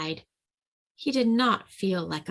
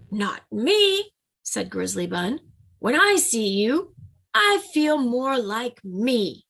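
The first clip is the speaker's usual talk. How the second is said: proud Grizzly Bun; 4 semitones higher than usual. Acted. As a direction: puff up like a tiny bear. Grizzly Bun comforts Bunny Bear.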